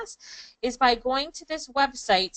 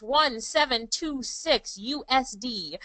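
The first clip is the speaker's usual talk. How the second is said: slow, deliberate read-out for note-takers; slow dictation; slower than usual. Real, not acted. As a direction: spell it out slowly, item by item. Dictating figure for chat box.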